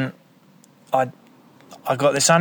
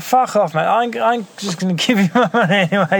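shouting; 10 semitones higher, 3 dB louder, faster than usual. Retold or imitated. Rebuffing the hustler in the staircase.

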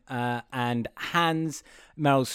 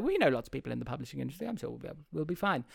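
dismissive boss; 8 dB quieter, much faster than usual. Retold or imitated. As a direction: toss it off quietly as the boss. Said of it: "Meryl Streep is like".

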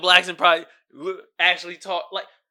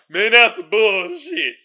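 skeptical doubters. Retold or imitated. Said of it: "Everybody's like".

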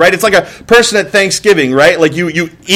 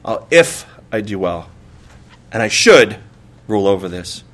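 mock despair; 9 semitones lower, 5 dB quieter than usual. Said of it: "It's like".

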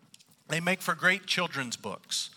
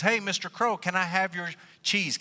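higher, lightly acted request; lightly voiced begging fox; wheedling fox; 5 semitones higher, 3 dB louder than usual. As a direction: ask hopefully in a raised storyteller voice. Fox asks the crow for cheese.

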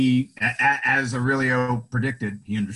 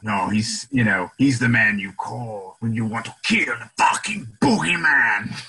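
menacing villain quote. Retold or imitated. Quoting the villain's line.

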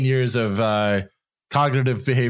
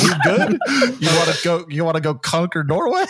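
laughing while talking; 4 semitones higher, faster than usual. Retold or imitated. Retold joke to dad, laughing.

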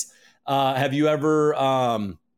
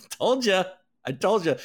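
laughing told-you-so; 6 semitones higher than usual. Real, not acted. Reminding viewers of his prediction, laughing. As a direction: giggle through it.

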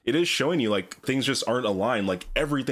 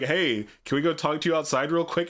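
higher, falsely casual lure; mock friendly guard; 5 semitones higher than usual. Guard luring Rob out of the hall, falsely casual. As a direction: sound innocently casual to lure him out. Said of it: "pull him from the room and be like".

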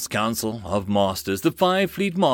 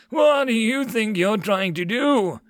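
high, slow indignant demand; angry crying out; 10 semitones higher, 3 dB louder than usual. Acted. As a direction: confront the intruders, pitched high. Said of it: "a man cried out".

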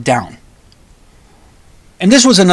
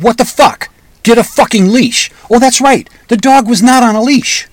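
retold angry outburst, higher and louder; toned-down ferocity; 8 semitones higher, 4 dB louder than usual. Owner leans into the stranger whose dog attacked, retold ferocity held back. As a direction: re-enact the rage at partial volume. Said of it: "not gonna be able to give it the kind of ferocity".

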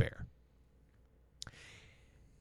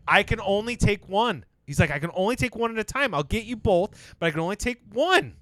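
Rip insisting; 5 semitones higher than usual. Retold or imitated. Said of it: "and he's like".

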